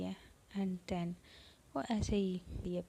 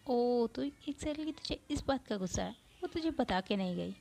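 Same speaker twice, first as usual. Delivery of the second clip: laughing; 4 semitones higher than usual. Acted. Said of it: "हंसती हो कहती".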